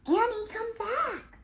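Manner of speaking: high, loud, slow shout after her. Acted. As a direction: call her back across the hill. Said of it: "Jack shouted".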